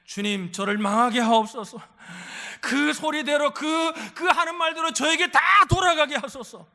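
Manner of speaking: acted outburst of prayer, building loud and high; wronged person praying in hot anger, hammed up; angry prayer. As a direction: cry out a mock curse-prayer at full voice. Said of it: "나를 막 화나게 하는 사람이, 분노하게".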